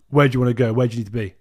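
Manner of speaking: imitating pushy taxi drivers. Taxi men harassing the girl.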